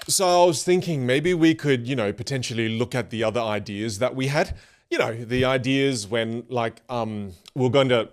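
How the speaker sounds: hedging ramble full of um, like and you know; unsure rambling pitch to colleagues; rambling, hesitant. Shown as a demonstration. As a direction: think aloud and never commit to a point. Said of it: "contrast what you just heard".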